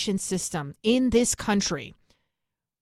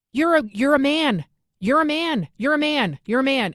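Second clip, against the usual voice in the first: emphatic insistence; 5 semitones higher, 4 dB louder than usual. Real, not acted. Angry rebuttal to clip speaker.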